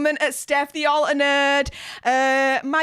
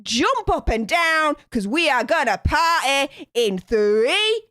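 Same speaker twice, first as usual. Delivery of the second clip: hype countdown; 2 semitones higher than usual. Real, not acted. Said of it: "Get your hands up in the air".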